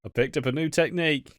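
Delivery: giggling through a teasing husband line; husband breaking into laughter while announcing a new trick; laughing mock husband. Acted husband quote, laughing.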